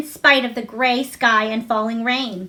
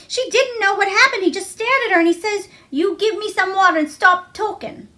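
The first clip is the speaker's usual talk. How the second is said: higher and eager, telling the climax; excited storytelling; 7 semitones higher than usual. A narrator's reading. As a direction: build the tale with relish. Martha telling a dramatic tale.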